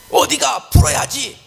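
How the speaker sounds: high-pitched, acted-out angry demand; 화난 배우자 흉내. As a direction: mimic a spouse itching for a fight. Acts out angry spouse demanding confrontation. (화가 나서 높은 목소리로 따지듯)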